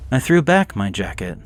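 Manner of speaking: usual speaking voice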